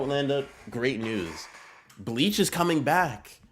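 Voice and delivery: big, slow, high-pitched hype; loud, drawn-out excitement for the return; excited announcement. Real, not acted. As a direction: build the news up to a thrilled cry. Announcing Bleach return to chat.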